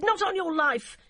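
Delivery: high, loud contemptuous shout; angry shout. A narrator's reading. DCI refuses to stop for the girl, high loud angry shout. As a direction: spit out the contempt. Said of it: "Emily shouted".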